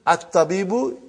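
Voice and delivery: At-tabibu begun on a clear glottal A; hamza pronounced. Shown as a demonstration. Teacher showing how a sentence starts, hamza sounded in At-tabibu. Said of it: "you started the sentence".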